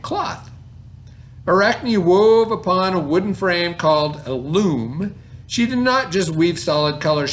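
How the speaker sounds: put-on slow, lifted read-aloud to children; story reading voice. Reads story aloud to class.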